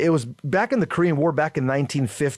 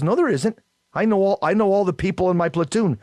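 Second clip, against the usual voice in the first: a sergeant flatly contradicting, raised up; insistent sergeant; 5 semitones higher than usual. Retold or imitated. Sergeant insisting to young Marine.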